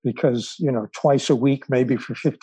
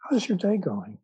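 warm; 6 semitones higher, 3 dB quieter than usual. Retold or imitated. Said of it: "very present, very warm".

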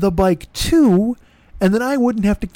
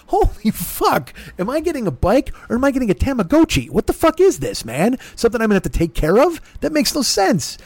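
exasperated outburst; 5 semitones higher than usual. Retold or imitated. Exasperated reply to bike instructions.

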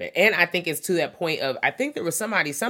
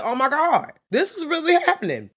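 much higher, rising panic; alarmed disbelief; 10 semitones higher than usual. Retold or imitated. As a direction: realize it's really happening. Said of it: "And I'm like".

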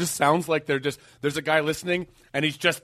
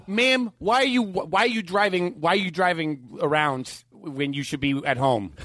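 Judge Judy. Retold or imitated. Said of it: "talked about Judge Judy".

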